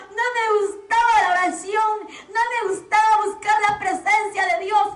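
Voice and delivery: imitating a tormented soul confessing; acted lament. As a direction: plead the confession in a wailing preacher's cadence. Preacher voices tormented Marcos confessing.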